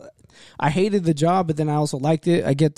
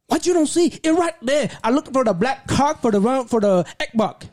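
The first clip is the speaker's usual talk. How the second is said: high-pitched mock Asian accent, irritated; 9 semitones higher than usual. Irritated customer insisting to store clerk, mock Asian accent. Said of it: "he starts to get irritated".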